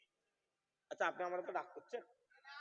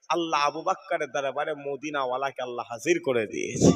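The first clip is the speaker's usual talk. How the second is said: usual speaking voice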